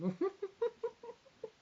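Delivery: very high, loud burst of laughter; high-pitched laugh. Real, not acted. Bursts out laughing after saying a name.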